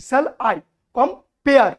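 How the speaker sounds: "shall I compare" in beats, punching the "pare" of compare; stressed second syllables. Shown as a demonstration. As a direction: lean hard on the end of "compare". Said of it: "জোর দিচ্ছি".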